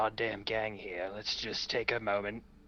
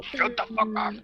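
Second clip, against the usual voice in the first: loud snap; 12 semitones higher, 6 dB louder than usual. Acted. Player snaps back in character.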